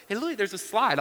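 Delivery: retold parent trying to get a child's attention; dad coaxing. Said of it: "I start telling her".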